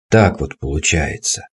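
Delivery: a hint of a mumbling old man. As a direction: shrug it off like a creaky grandpa. Old man's catchphrase.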